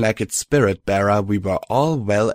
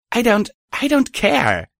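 higher, heated, stumbling start; defiant outburst; 4 dB louder than usual. A narrator's reading. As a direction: blurt it out, fed up. Hero snapping back.

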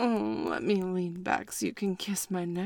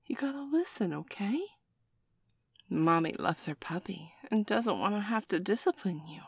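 whisper. Acted. Soothing him after hitting him.

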